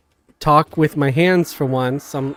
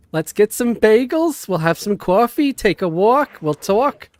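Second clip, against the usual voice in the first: put-on higher New York Jewish accent, slow and sing-song; a neighbor invites you for bagels in a hammed-up New York Jewish accent; Queens Jewish accent; 7 semitones higher than usual. Streamer imitates a Jewish neighbor from Queens, higher and slower New York Jewish accent. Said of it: "more like".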